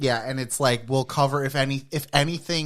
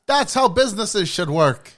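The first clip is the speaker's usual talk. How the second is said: mock boomer; 10 semitones higher, 5 dB louder than usual. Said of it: "they were like".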